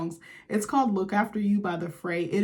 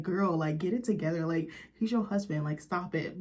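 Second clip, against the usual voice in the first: self-scolding; 3 semitones lower, 5 dB quieter than usual. Retold or imitated. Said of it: "I'm like".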